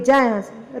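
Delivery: जा pushed up high and final. Acted. Sister drives Dukhni away again.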